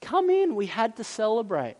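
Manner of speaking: understated loving plea; pleading father. Acted. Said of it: "he just pleads".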